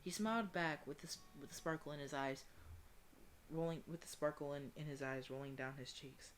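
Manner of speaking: soft, measured reading; story narration. A narrator's reading. Player reading a tearful reunion scene, soft story narration. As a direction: read it gently, like a tender story.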